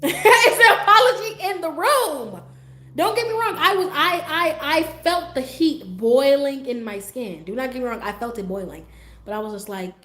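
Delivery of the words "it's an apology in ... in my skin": high, loud, slow laughing disbelief; laughing outrage. Real, not acted. Telling viewers how angry his apology made her, laughing loud.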